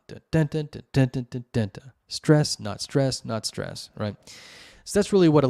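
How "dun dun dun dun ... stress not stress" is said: sing-song beat chanting for the limerick meter; limerick rhythm demo. Shown as a demonstration. Showing viewers the limerick meter by chanting beats. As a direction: chant dun dun dun, then Stress punched and not stress trailing off. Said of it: "upbeat, downbeat, stressed".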